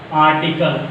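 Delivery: article with no R before the T; silent R. Shown as a demonstration. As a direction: say "Article" with a long open A, R silent. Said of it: "R silent".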